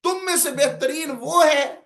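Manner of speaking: emphatic orator's rendering with strong rises and falls; public-speaking cadence, key words stressed; oratorical delivery. Shown as a demonstration. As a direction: proclaim it to an audience, leaning on the key words. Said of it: "پھر یوں ہی ہوگا".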